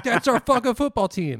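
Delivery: loud, high rowdy fan yell; proud fan shout. Retold or imitated. Fans shouting in the theater.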